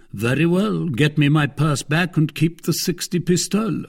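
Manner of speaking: high, lordly order to an innkeeper; imperious Athos. Acted. Athos telling the host to fetch his purse, imperious. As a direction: wave the matter away grandly.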